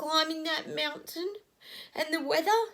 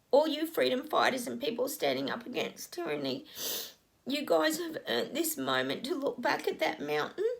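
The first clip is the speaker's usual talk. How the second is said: tearful channeling; 2 semitones lower than usual. Real, not acted. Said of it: "I couldn't stop those tears from coming up".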